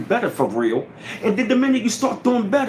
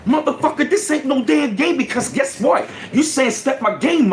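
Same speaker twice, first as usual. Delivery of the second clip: higher, sharp mock-scolding outburst; heated retold yell; 6 semitones higher than usual. Speaker scolding the friend laughing at him, heated mock yell. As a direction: snap at a friend laughing at you.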